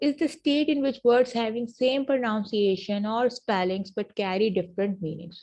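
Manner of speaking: very slow, word by word for students to write down; slow dictation. Shown as a demonstration. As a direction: dictate the definition slowly. Dictating the definition again.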